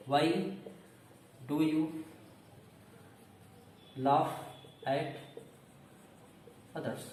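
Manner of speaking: Why do you laugh at others, very slow; slow dictation. Shown as a demonstration. Teacher dictating question to students, slow. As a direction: spell it out for the class. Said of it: "teacher dictates example sentence".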